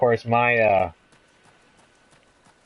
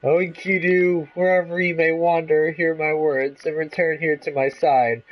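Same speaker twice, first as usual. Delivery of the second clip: beseech the absent friend; dramatic plea; 9 semitones higher, 3 dB louder than usual. Acted. Gilgamesh calling out to Enkidu, hammed-up plea. Character calls to lost friend.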